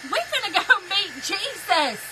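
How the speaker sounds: amused, laughing exclamation. Real, not acted. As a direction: crack up while telling it. Laughing as she retells the panic.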